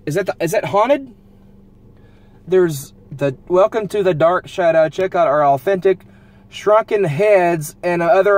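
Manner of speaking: high, loud, breathless discovery; thrilled excitement. Real, not acted. Driver reading a haunted attraction sign, thrilled and loud. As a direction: read the spooky sign with delight.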